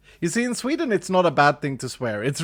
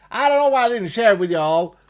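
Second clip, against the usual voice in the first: louder, higher, said out to the audience; clear repeat for chat; 4 semitones higher, 4 dB louder, faster than usual. Real, not acted. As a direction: repeat it properly for the viewers.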